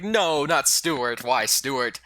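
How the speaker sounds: slow, high, drawn-out lament; hammed-up slow wail of grief; grieving protest. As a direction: stretch each word in mock mourning. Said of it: "We were like".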